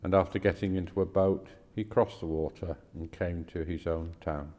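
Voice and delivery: measured, clearly projected Bible reading; scripture reading. Acted. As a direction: read the passage aloud formally, pausing between phrases. Reads a scripture passage aloud.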